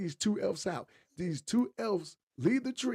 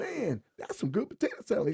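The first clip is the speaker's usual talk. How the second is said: commercial guy; 5 semitones higher than usual. Acted. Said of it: "I'm like".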